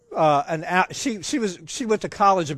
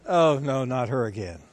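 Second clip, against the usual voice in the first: falling, lower mock groan of dread; mock dismay; 6 semitones lower than usual. Dad pretending to dread his daughter's visit, mock dismay. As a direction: act out a sinking, weary dismay.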